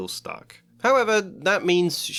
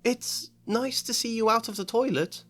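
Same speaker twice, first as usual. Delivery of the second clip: sniffy ghost; 12 semitones higher than usual. Acted. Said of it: "Myrtle sniffed".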